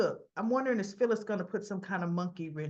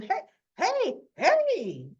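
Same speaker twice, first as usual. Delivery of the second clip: high, loud call to break up a fight; hey hey hey, cut in over the noise; 10 semitones higher, 6 dB louder, much slower than usual. Retold or imitated. Summer stepping between her mother and Christine, loud call.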